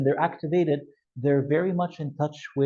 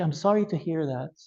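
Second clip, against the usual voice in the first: soft supportive voice. Shown as a demonstration. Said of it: "you see how soft this was?".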